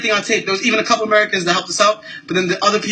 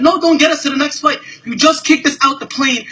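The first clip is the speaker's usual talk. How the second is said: raised, heated no to the offer; angry refusal; 5 semitones higher than usual. Real, not acted. Man refuses the captain's offer of the next flight, angry and raised.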